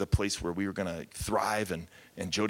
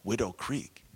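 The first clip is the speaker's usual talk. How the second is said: imitated Asian accent, slightly raised pitch; thick foreign accent; 3 semitones higher, slower than usual. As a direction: mimic her accent, "Willow" becoming "Widow". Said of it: "with her thick, heavy accent".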